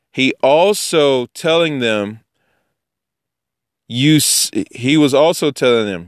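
measured reading aloud, slightly lifted; scripture reading. Acted. Teacher reading Mashiach's rebuke about tradition, measured recitation. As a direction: read the verse out deliberately.

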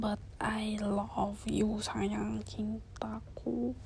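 slow, soft loving whisper; tender whisper. Real, not acted. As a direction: draw it out slowly like a lullaby. (bisikan mesra yang pelan)

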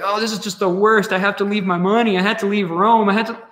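hammed-up lament over leaving it all; mock distress. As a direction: imitate someone bemoaning a loss, half-seriously. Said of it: "He's not crying about it".

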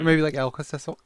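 Alka-Seltzer said as Elka-Seses, rising; Alka-Seltzer slurred with a questioning rise; mispronounced Alka-Seltzer. Real, not acted. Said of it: "You still didn't get it right".

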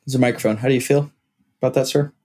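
lightly voiced sideline reporter; a co-host playing a post-game interviewer; mock reporter. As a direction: hold out a pretend mic and ask him. Mock interview with fake microphone.

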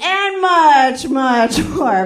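awkward hammed-up seduction; forced sexy read. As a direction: try too hard to sound sexy. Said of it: "Just wink".

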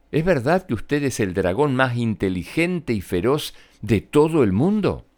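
lightly voiced clever princess, flattering and rising. Elizabeth flatters the dragon. (princesa astuta que adula al dragón)

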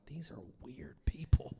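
half-whispered aside of disbelief; mock whispered disbelief. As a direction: whisper it like a private judgment. Acted stunned reaction to odd people.

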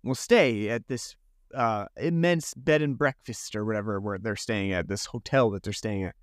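a light send-up of breezy holiday plans; mock ditzy travellers. Mocking the two women planning an Irish trip, lightly voiced airy tone. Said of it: "these two women who are like".

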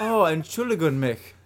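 put-on German accent; mock German. Host tries the actual language, mock German accent. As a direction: attempt an apology in German.

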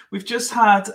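breaking into a gentle laugh. Real, not acted. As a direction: laugh through the words, amused. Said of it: "I'm not laughing at you".

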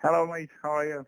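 thin phone-line audio; over the phone. Real, not acted. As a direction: voice through a phone call. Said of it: "I'm on the phone right now".

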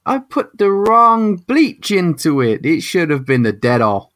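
squeaky panicked scientist; high scientist voice. Acted.

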